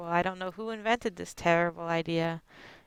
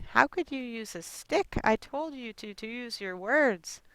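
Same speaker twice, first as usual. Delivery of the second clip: daughter scolding; 4 semitones higher than usual. Retold or imitated. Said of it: "say my daughter".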